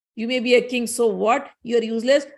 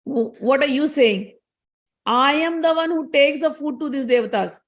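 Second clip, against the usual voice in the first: indignant retort; 2 semitones higher than usual. Acted. Agni answering the moon god, mildly indignant. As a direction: push back, offended.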